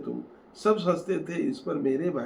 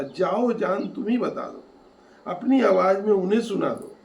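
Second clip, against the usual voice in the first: raised voice, higher at times; loud, smiling call; 4 semitones higher, 5 dB louder than usual. Acted. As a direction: call out to a wife with a smile. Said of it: "मुस्कुराया और जोर से बोला".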